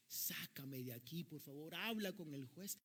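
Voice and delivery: ruego que sube de tono al final; súplica a gritos imitada. Retold or imitated. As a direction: imita a un hijo que suplica, alargando las palabras. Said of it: "él le gritaba a su papá". (súplica creciente, grito a medias)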